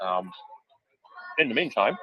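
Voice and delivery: talking while chewing a chip; chewing noisily. Real, not acted. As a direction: mouth full of chip. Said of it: "sorry, I'm eating a chip".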